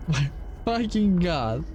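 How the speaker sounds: slow, drawn out through a laugh; laughing exasperation. Real, not acted. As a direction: laugh at your own misery. Repeat with laugh.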